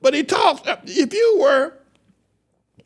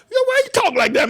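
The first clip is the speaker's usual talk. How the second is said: high squeal of laughter through the words; cracking up in disbelief; laughing hard; faster than usual. Real, not acted. Cracking up at clip.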